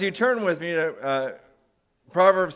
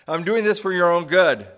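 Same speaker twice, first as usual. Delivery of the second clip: mother's voice; 3 semitones higher, 5 dB louder than usual. Retold or imitated. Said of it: "heard your mother say these words".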